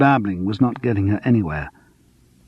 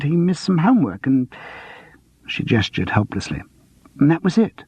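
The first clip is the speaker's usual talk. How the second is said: higher, flustered woman's voice; Sandra voice; 3 semitones higher than usual. Acted. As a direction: voice the defensive mother.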